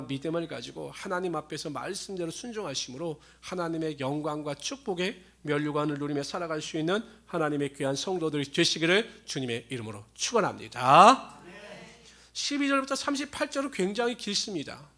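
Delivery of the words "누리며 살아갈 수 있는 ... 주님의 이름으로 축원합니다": fervent closing blessing. Real, not acted.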